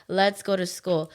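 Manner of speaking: put-on a child jumping at the offer; eager kid yes. Little girl eagerly accepting a stranger's ride. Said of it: "I'm like".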